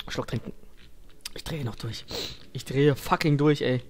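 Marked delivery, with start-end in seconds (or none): 0.1-2.0 scared horror game streamer. Real, not acted. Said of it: "paralysiert von dieser Angst".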